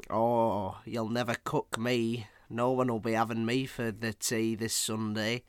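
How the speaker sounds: lightly voiced villain pudding with a northern accent; mildly menacing talking pudding; evil Yorkshire pudding. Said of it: "the evil undercooked Yorkshire pudding".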